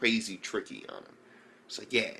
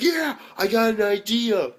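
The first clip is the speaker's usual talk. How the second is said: higher, slow, sinister drawl; creepy villain; 11 semitones higher, 6 dB louder, slower than usual. Acted. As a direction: savor it like a psycho. Villain about to crush frog.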